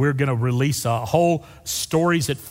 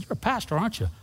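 knowing question; 8 semitones higher, 5 dB quieter, faster than usual. Retold or imitated. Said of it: "and he looked at me and said".

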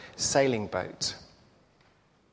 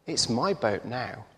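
smiling shopkeeper; 2 semitones lower, 10 dB quieter than usual. A narrator's reading. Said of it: "the shop owner smiles and says".

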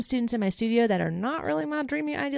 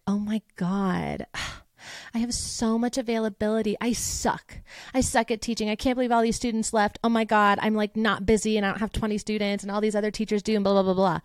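mock victimhood.

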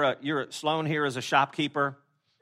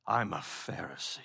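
lower, softer, smug self-satisfied aside; smug Pharisee; 7 semitones lower, 8 dB quieter than usual. Retold or imitated. Pastor mocking the Pharisees' pride, low and smug. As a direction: purr it like a smug religious expert.

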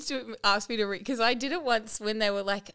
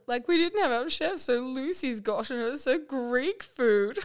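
other woman; 3 semitones higher than usual. Retold or imitated. Retelling the other woman's moan about the food, mock complaint. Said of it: "the other woman's like".

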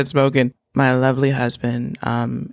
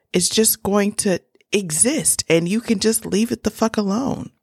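exasperated; 8 semitones higher than usual. Real, not acted. Scolding husband over tequila.

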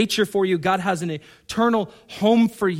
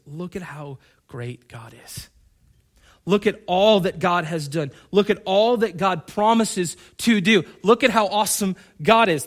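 building praise; 3 dB louder than usual. Acted. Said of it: "the dog theology says".

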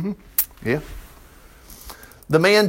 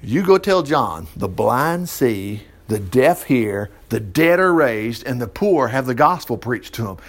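Jesus answering; 6 semitones lower, slower than usual. Retold or imitated. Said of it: "And Jesus says".

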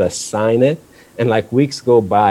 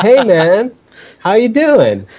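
much higher, louder, overly cheery hello; nervous friendly greeting; 13 semitones higher, 4 dB louder, slower than usual. Retold or imitated. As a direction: sound fake-friendly to a scary guy. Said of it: "And I'm like".

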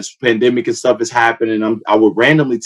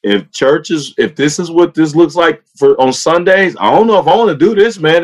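higher, quick, exasperated rant; retold exasperated doubt; 5 semitones higher than usual. Telling his friend church looks too stressful, fast exasperated rant. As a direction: unload your doubts to a buddy, fast and worked up.

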